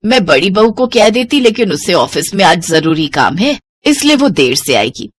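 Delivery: a hint of a bossy mother-in-law giving errands; elderly mother-in-law. Mother-in-law sends daughter-in-law to buy a sari, casual and low.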